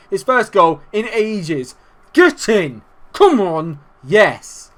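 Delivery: loud, high celebratory cries; excited celebration. Real, not acted. Gamer cheering the opening goal, excited celebration. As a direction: cheer it out, punching each phrase.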